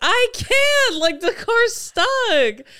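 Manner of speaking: high, frantic, panicked outburst. Retelling being stuck in a stalled car while the brother urges go, acting out a panicked cry. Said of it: "And then I was like panicking".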